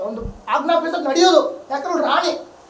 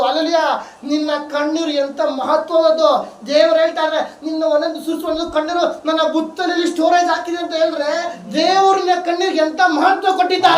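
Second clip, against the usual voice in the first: sermon building to a raised proclamation; fervent preaching; 2 semitones higher than usual. Real, not acted. Preacher telling believers God treasures every tear, fervent preaching. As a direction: build steadily toward the amen.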